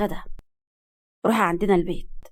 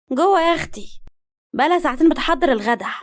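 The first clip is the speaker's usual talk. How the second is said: higher, grumbling complaint; complaining mother; 6 semitones higher than usual. A narrator's reading. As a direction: grumble about the girl to a guest. Mother complains about slow daughter. (أم بتشتكي من بنتها)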